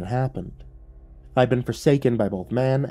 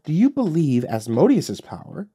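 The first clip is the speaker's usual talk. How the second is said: a hint of a taunting demon; lightly voiced devil, cool and mocking; Lucifer's voice; 3 semitones higher than usual. Lucifer questions Davis.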